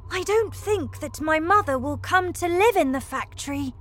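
put-on high child's voice with a touch of sorrow; understated, regretful young boy; mild sadness. A narrator's reading. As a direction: voice a slightly sad child. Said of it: "said Charlie sadly".

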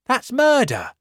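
high, loud outraged cry; shocked protest. Acted. Policeman protesting to the American, high and shocked. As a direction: object in alarm.

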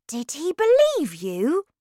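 put-on high-pitched eager child; curious boy. A narrator's reading. Boy wants grandmother's news, eager high voice.

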